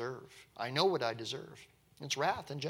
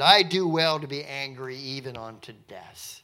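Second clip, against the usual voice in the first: louder, defiant quoted answer; mildly acted anger, landing hard on the opening; angry retort; 6 dB louder than usual. Jonah answering God about the gourd, mild anger. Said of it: "this angry with the gourd".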